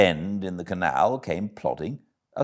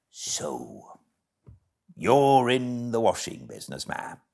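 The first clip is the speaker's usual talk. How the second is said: a lightly voiced, hearty barge woman, a touch higher; 4 semitones higher than usual. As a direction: hail the passer-by like a friendly bargewoman.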